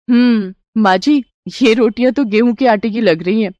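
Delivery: lightly voiced wondering bride; marvel, then lift the pitch into questions; a hint of a suspicious young woman; amazed, curious daughter-in-law.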